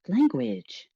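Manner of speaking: a hint of a scolding aunt; clipped reproach, hands on hips; stern scolding.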